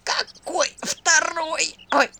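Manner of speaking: slow, high whispered strain; straining grunt. Acted. Bound demon strains under the spell, high slow whisper. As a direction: squeeze it out while tied up. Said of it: "Натужно и кряхтя спросил нечистый".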